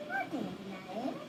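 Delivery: slow hushed greeting; soft pet talk. Real, not acted. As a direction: greet the shy cat gently. Quiet greeting to hiding cat.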